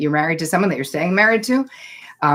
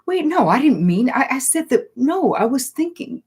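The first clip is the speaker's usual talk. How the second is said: higher, backpedalling bully caught out; flustered bully; 6 semitones higher than usual. Retold or imitated. Mocking a confronted bully who crumbles, higher and flustered. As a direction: stammer like a bully who has been called out. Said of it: "they're like".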